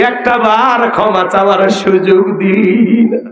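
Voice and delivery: a wailing, remorseful cry to his dead mother; sobbing at the grave. Acted. Son at his mother's grave, mild wailing lament. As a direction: plead for forgiveness through tears. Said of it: "হাউমাউ করে কাঁদে আর বলে".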